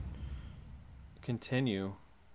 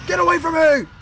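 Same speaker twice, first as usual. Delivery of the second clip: Marine voice; 9 dB louder than usual. Pretend. Mock soldier callouts.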